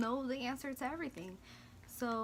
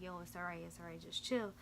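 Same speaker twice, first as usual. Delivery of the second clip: softer, lightly soothing retelling; imitated calming down; 2 semitones lower, 5 dB quieter than usual. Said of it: "trying to calm me down".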